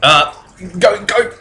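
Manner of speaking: high, hurried shooing of pests; flustered foreman. Acted. Foreman shooing the pushy trader away, high and hurried. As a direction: get rid of them fast.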